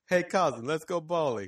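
high, mock foreign cousin voice; Roman impression. Echoing the friend's bowling invitation, high mock cousin voice.

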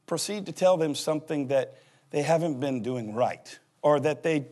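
ordinary talk

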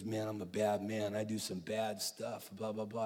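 preacher softly imitating a crying tattoo artist; retold crying. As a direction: confess it quietly, lightly imitating. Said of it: "He starts to cry".

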